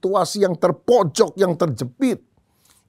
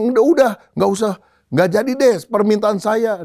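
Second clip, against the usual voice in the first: panicked farmer; 8 semitones higher than usual. Acted. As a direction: back out in an acted panic. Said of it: "petani ini kaget". (petani panik memohon dengan nada tinggi)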